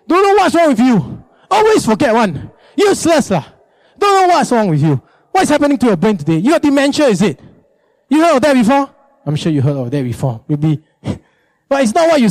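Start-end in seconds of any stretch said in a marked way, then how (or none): 0.1-8.9 high, scolding tirade; nagging. Acted. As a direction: berate a forgetful husband, hammed-up. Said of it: "It's about how you say it".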